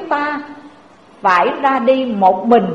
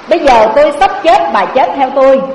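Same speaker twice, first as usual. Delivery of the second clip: husband's urgent plea; 5 dB louder, faster than usual. Acted. Husband pleads with second wife.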